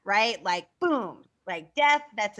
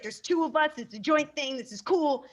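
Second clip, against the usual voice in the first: higher, fake-upbeat imitation; mock forced cheer; 4 semitones higher than usual. Teacher imitating the student's forced excitement. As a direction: act thrilled while panicking. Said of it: "And it's like".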